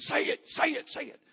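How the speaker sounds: put-on pressing, urgent, repeated screaming. Retelling a friend screaming in the speaker's ear: imitating someone screaming. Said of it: "He's in my ear screaming".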